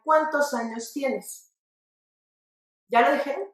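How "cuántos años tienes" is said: slow question with "Cuántos" stressed on its first syllable. Shown as a demonstration. Teacher asking viewers to repeat, stressed "Cuántos". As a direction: lean on the CUÁN of "Cuántos", slowly. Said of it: "Ahora les voy a pedir que digan".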